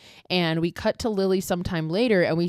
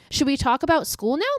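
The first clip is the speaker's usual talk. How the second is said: higher, sweet little-girl voice, lightly imitated; innocent little girl; 8 semitones higher than usual. Recapper imitating Lily turning sweet for Doug, innocent girl voice. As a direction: switch to mock innocence on a dime. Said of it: "changes tones and goes back to the innocent little girl".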